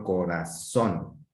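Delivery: "corazón" slowed, leaning on "zón"; stress on last syllable. Shown as a demonstration. Teacher showing pupils an acute word, final stress on "corazón". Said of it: "la fuerza de pronunciación en la última sílaba".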